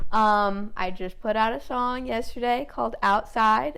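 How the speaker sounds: slightly tipsy, loose delivery. Real, not acted. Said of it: "Sorry, I'm a little tipsy".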